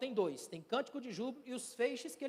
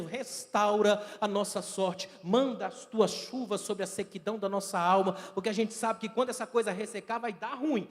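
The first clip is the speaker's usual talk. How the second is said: louder, pleading plea for rain on the soul; fervent prayer; 4 dB louder than usual. Acted. Preacher voicing the congregation's prayer, fervent plea. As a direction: cry out to God for restoration. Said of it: "a gente tá te dizendo".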